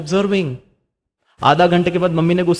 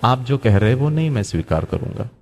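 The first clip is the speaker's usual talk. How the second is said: calm and peaceful; 4 semitones lower than usual. Shown as a demonstration. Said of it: "मैं फिर भी बड़े शांति से बोलूंगा".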